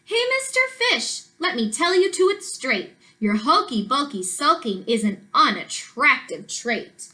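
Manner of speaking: rhythmic picture-book storytelling with swooping pitch; sing-song storybook narration; reading to children. A narrator's reading. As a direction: read the rhyme aloud to young children, bouncing on the stresses.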